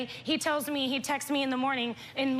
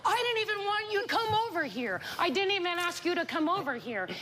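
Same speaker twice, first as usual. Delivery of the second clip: mimicking husband; 5 semitones higher than usual. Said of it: "And he's like".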